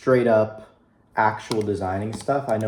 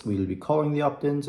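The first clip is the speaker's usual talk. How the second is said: a sudden crack in the voice; 6 semitones higher, faster than usual. Real, not acted. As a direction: voice cracks high mid-line. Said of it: "a little bit of a voice crack there".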